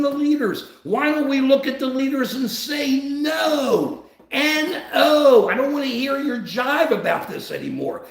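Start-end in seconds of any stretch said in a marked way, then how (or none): 3.0-8.0 defiant refusal. Acted. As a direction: refuse them loftily, stretching the key words. Acted reply to political leaders.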